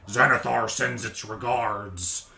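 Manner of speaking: slow, deep orcish menace. Acted. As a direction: growl it like an orc thug. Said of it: "a deep voice with an orcish accent".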